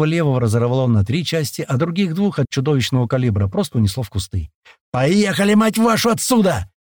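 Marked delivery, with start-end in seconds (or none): 4.9-6.7 high, cursing yell; a man in the back screaming to drive; panicked yell. A narrator's reading. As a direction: snap and yell it, losing his nerve. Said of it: "не выдержав, заорал сзади мужик".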